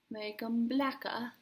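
slow, drawn-out put-on voice; a lightly voiced strange drawl, slowed down; odd put-on voice. Doing her eyebrows, a slow odd put-on voice. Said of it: "I don't know why I'm speaking like that".

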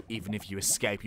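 whispered low threat; villain whisper. Acted. Villain whispering to the trapped detective, menacing whisper.

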